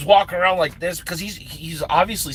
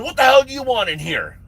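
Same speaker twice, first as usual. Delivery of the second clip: higher-pitched mock demand of an intruder; retold gruff challenge; 8 semitones higher than usual. Instructor confronts the intruder at the pool, retold challenge.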